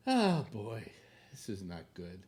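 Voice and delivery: winded after running; out of breath. Real, not acted. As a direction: talk while catching your breath. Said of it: "And I'm out of breath now".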